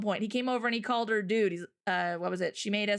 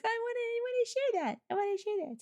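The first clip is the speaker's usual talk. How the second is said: eager quote; 11 semitones higher than usual. Retold or imitated. Retelling how she started saying chickie, eagerly high. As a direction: sound delighted to pass it on. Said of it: "I'm like".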